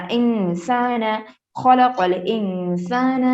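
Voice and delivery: slow, measured tilawat; Quran recitation. Acted. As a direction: recite each word slowly and evenly. Recites verse slowly. (آہستہ تلاوت)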